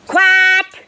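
high, bright-vowelled working quack; one long, high triumphant quack; excited duck quack. Acted. Duck tests second working A.

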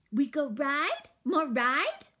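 put-on high, loud little-girl begging; toddler voice. A narrator's reading. Toddler asking the roach for another ride. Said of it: "said Boots".

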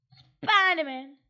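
Spiderman stretched out very slow; drawn-out Spiderman. Shown as a demonstration. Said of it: "Spiderman (plain take)".

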